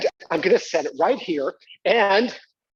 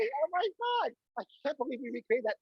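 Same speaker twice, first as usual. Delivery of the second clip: awed hush; 7 semitones higher, 8 dB quieter than usual. Real, not acted. Awed after the noise.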